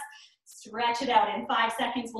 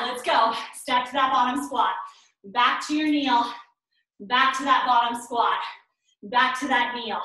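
barking gym coach; 3 dB louder than usual. Real, not acted. Coach driving squat intervals.

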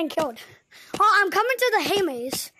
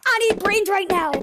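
excited zombie voice; 3 dB louder than usual. Retold or imitated. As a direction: bark it out like an eager zombie. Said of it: "Why do you say brains?".

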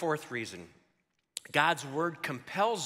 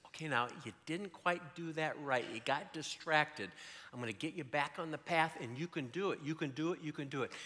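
soft, encouraging coach to a puppy; quiet, coaxing encouragement; pep talk; 6 dB quieter than usual. Acted. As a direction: gently reassure a dog that went astray. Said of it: "He's kinda giving him a pep talk".

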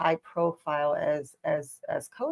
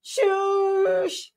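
mock shushing; 12 semitones higher than usual. Mock hushing the co-host's joke.

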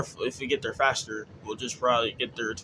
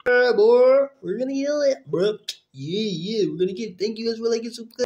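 high, loud hype-man shout; hype yell; 10 semitones higher, 7 dB louder than usual. Real, not acted. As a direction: pump up the crowd. Hype celebrating subscribers.

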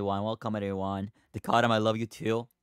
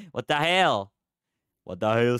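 startled; 6 dB louder than usual. Real, not acted. Startled by being hit in game.

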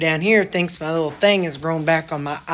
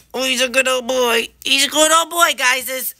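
high, louder gushing pet talk; 6 semitones higher, 7 dB louder than usual. Real, not acted. Owner praising her dog in high, loud baby talk.

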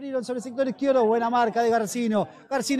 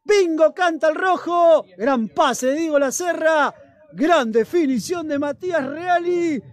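emphatic goal recap; 2 semitones higher, 3 dB louder than usual. Real, not acted.

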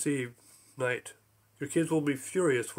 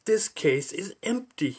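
Zorg voice; 5 semitones higher, slower than usual. Acted. Zorg voiced, far timbre.

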